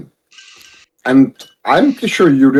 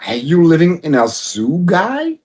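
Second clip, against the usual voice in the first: incredulous retort; 4 semitones higher than usual. Retold or imitated. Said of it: "And I'm like".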